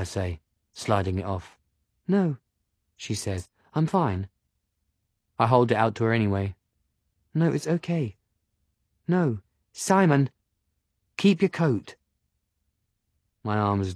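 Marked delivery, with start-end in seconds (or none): 2.1-11.9 put-on young woman voice. Agatha refuses coat.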